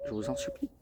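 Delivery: squeaky high mock plea, soft; mock pleading. Begging viewers for a like, squeaky high plea. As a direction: beg in a tiny high voice, half joking.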